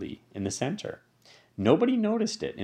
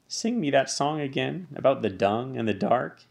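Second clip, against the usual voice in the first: begging; 5 semitones higher than usual. Acted. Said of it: "he begged".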